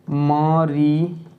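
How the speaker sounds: मरी stretched very slowly; drawn-out syllable. Shown as a demonstration. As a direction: hold out मरी for the students. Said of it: "last का एक चीज़ को उठा लीजिएगा". (मरी को बहुत खींचकर बोलना)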